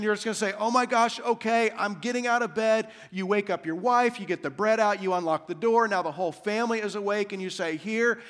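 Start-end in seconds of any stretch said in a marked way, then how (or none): 0.6-2.9 mildly exasperated homeowner giving in; acted frustration, a touch raised; frustrated. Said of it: "out of frustration". 7.8-8.2 slow, exasperated giving in; acted weary annoyance, words drawn out; frustrated. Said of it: "out of frustration".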